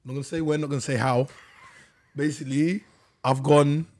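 hesitant, stumbling over the name; halting and unsure, restarting; lots of ums and uhs. Real, not acted. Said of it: "that's what's tripping you up".

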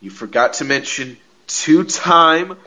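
high, slow, vain diva voice; mocking Carmella bragging about herself; imitating Carmella. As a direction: play the self-adoring heel, soaring up. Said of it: "and Carmella said".

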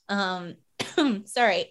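coughing after swallowing water wrong; choking on a drink. Real, not acted. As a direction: clear the throat after choking. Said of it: "I just, like, choked on my water".

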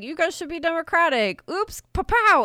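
breezy sarcasm; sarcastic. Retold or imitated. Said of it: "This is sarcasm".

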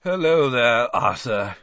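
a hint of a tired wizard; lightly voiced weary man; weary official. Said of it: "said Basil wearily".

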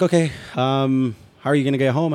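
a lightly voiced patient police officer; imitating the officer. Officer questioning the drunk driver.

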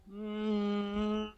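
lightly put-on Dutch accent as Elon. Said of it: "I'd throw a weird Dutch accent in there".

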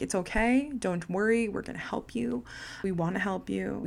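imitating a comforting official, lifted pitch; soothing reassurance. Scammers calming her down on the phone, soothing reassurance. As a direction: gently coax a crying caller, softening at the end.

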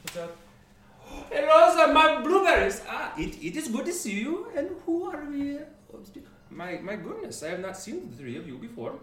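high, loud excited greeting that settles down; the dwarf shopkeeper gushing over his new customers. Acted. GM as a dwarf merchant greeting the party, excited. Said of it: "comes a dwarvish figure".

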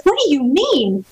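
slow, hurt question, a mild retelling of the anger; stunned disbelief. Retold or imitated. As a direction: let the shock slow the words down. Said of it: "I was so angry, and I was so shocked".

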